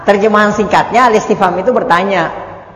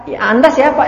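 asking again; 7 semitones higher than usual. Retold or imitated. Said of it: "jadi kalau kita ketok-ketok".

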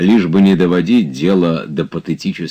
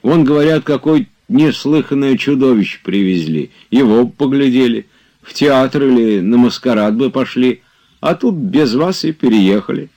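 higher and louder, eagerly persuading; with great fervour; 8 semitones higher, 5 dB louder than usual. A narrator's reading. Zakhar urging his master to go out, fervent and eager. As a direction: press the point with rising zeal. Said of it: "продолжал Захар с большим жаром".

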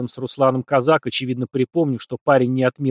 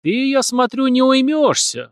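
slow, menacing, higher hiss; ominous hiss; 11 semitones higher, 3 dB louder, slower than usual. A narrator's reading. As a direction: threaten him slowly. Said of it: "зловеще зашипел Руслан".

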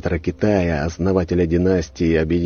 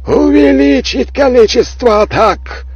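thunderous roaring command, slow and high; booming voice from sky; 10 dB louder than usual. A narrator's reading. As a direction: roar the order like a god from the heavens. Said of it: "прогремел голос императора".

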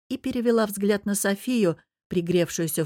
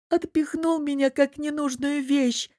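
sobbing out; 8 semitones higher than usual. Acted. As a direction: choke the words out in tears. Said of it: "всхлипнула Лиза".

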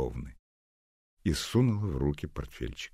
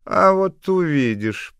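put-on spiteful old woman; 13 dB louder, slower than usual. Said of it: "пообещала бабуся".

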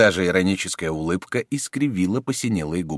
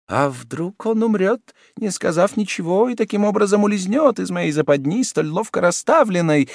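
cardinal's scheming thought; 13 semitones higher, 4 dB louder than usual. A narrator's reading. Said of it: "И он быстро наклонился".

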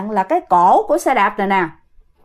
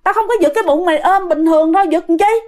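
higher-pitched emphatic protest; insistent denial; 5 semitones higher than usual. Retold or imitated. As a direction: firmly swear innocence in a raised pitch. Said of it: "người dì của bạn khẳng định rằng". (khẳng định chắc nịch, cao giọng)

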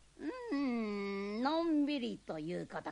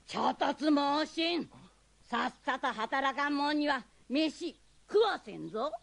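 scolding; 4 semitones higher, 5 dB louder than usual. Acted. Old man scolding lazy helper.

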